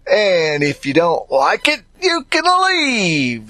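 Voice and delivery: mock-dismissive if you don't like it, you can leave; dismissive brush-off. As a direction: shoo them off with a drawn-out leave. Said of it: "That's what some folks say".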